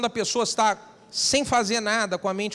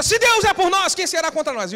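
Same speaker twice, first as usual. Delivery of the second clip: mock, very high, loud shouted cry; 9 semitones higher, 6 dB louder than usual. Retelling a service where brothers shout scripture verses, retelling a shout. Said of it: "E o outro grita".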